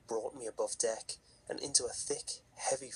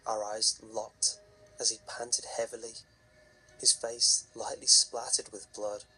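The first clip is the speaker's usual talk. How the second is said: story narration. A narrator's reading. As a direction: tell it like a campfire horror story.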